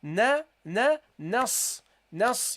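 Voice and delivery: "na" alone, then closed into "nas"; joined-letter demonstration. Shown as a demonstration. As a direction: build "na" into one syllable "nas". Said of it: "You have to connect it".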